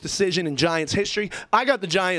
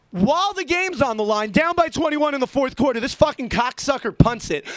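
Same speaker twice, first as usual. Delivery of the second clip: angry rant; 6 semitones higher than usual. Real, not acted. Ranting about the punt decision.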